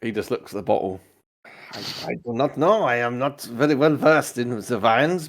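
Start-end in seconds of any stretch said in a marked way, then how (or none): 1.7-5.3 put-on French accent. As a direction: admit it in mock French. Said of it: "he is French".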